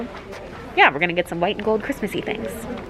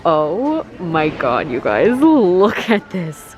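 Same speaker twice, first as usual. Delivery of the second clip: amazed; 3 semitones lower, much slower than usual. Real, not acted. Amazed by Christmas store.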